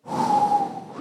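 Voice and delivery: long released sigh. Shown as a demonstration. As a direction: let out one big sigh. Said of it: "You're just".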